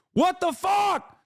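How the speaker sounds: high, slow incredulous yell; exasperated shout. Real, not acted. Streamer ranting about natural advantage complaints, exasperated shout. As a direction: shout it out in drawn-out disbelief. Exasperated rant at double standard.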